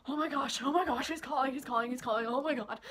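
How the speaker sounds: flustered squeal-along, retold with laughter creeping in; giddy panic. Girl sees her crush is calling, giddy panic.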